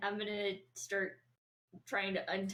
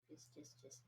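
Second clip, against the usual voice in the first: whispering; 5 semitones lower, 24 dB quieter than usual. Acted. Whispered continuation.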